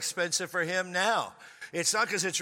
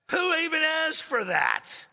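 much higher, louder, slow; indignant outburst; 11 semitones higher, 5 dB louder, slower than usual. Retold or imitated. Refusing his date's request, a high indignant outburst. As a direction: blow up in disbelief.

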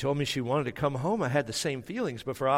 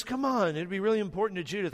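coaxing; 6 semitones higher, faster than usual. Retold or imitated. Wife pleads with reluctant husband.

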